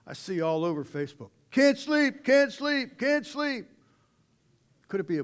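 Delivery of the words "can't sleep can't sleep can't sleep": high, loud, singsong complaint; mock whining. Preacher mocking sleepless people posting online, mock whining. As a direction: whine it like a tired child.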